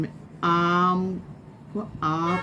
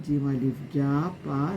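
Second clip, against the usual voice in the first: slow spelling; much slower than usual. Shown as a demonstration. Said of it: "इसी तरह जो भी उर्दू अल्फाज".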